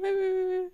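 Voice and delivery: high, whimpering imitation of a crying child; mock crying. Retelling tears over an ink spot at school, mock crying. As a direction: imitate a little kid's wail. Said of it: "and then I started crying".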